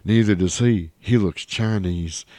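a light cartoon-character impression, drawn out at the end; slow down the last words in a lightly put-on voice; Hank Hill voice. Podcaster repeating the line as lightly imitated Hank Hill. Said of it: "totally a Hank Hill voice".

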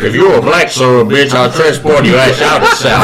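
lightly voiced Southern gentleman; Colonel Sanders. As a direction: try on a folksy Kentucky colonel. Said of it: "who is Colonel Sanders".

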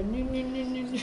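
high monotone silly chant; grandpa's playful noise. Retold or imitated. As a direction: make a silly repeated noise to amuse kids. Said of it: "he'd point his mustache up and go".

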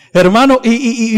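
ordinary talk

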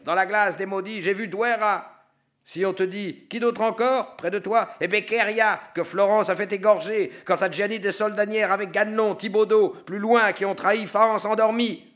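high, loud, spiteful listing of names; spiteful damned sinner. Acted. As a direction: denounce the others with bitter glee. Bocca denouncing other traitors.

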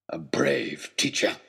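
slow, mocking whisper; villain whispering mock praise; sneering whisper. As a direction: hiss it with a twisted smile. Villain sneers with twisted smile.

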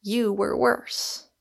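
slow, intense restraint; low but violent. A narrator's reading. Michael accuses Rosamond of worse, low yet violently. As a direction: bear down slowly with contained violence. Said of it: "in a low voice and yet violently".

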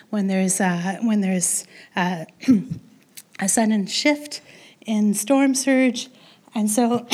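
losing voice, rough and strained; hoarse voice giving out mid-sentence. Real, not acted. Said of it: "I'm losing my voice".

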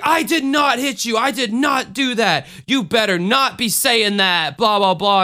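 imitating an upset aunt insisting she didn't hit him; angry great aunt. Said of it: "freaked the fuck out on me".

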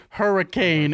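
imitated ghost box. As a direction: lightly mimic a word-speaking gadget. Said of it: "it goes".

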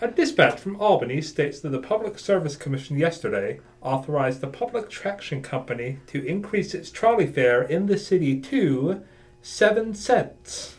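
lightly voiced old newsreel reader; old-timey voice. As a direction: read it like an old-time radio announcer, drawing out "seven cents". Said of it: "to read this in the old-timey voice".

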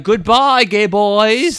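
high, loud German farewell; Hans. Acted. German guy taunts the gang he cheated, high loud German accent. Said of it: "Yeah, he's like".

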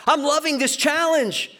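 high, mock cheerful voice; hammed-up sunny positivity; chirpy mantra. Shown as a demonstration. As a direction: sing it out like an overeager optimist. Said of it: "That's way too soft for me".

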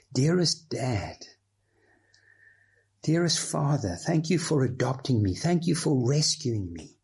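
earnest, grateful prayer voice; heartfelt prayer. Shown as a demonstration. Believer praying to God in traffic, earnest and grateful. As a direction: pour out thanks to a loving father.

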